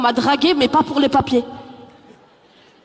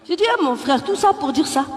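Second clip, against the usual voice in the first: ordinary delivery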